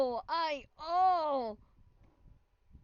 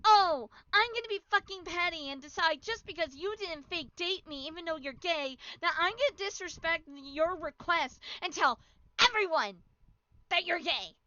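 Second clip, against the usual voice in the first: mocking petty girl; 2 semitones higher than usual. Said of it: "you choose".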